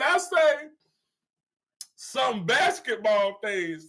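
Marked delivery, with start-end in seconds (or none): 2.0-3.9 "some basketball things" said slowly and deliberately; drawn-out qualifier. Shown as a demonstration. Streamer clarifying to a teasing viewer, slow and pointed. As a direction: stretch out "some basketball things" to limit the claim. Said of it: "I say it like that".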